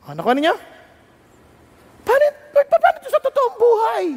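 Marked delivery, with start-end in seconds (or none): 2.1-4.1 high urgent plea to the Lord; earnest pleading prayer. Retold or imitated. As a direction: beg for an answer.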